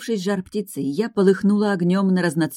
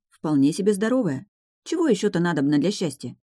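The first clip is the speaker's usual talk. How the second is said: ordinary delivery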